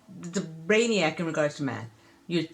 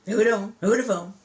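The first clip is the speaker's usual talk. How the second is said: calling attention; 3 semitones higher, 7 dB louder, faster than usual. Real, not acted.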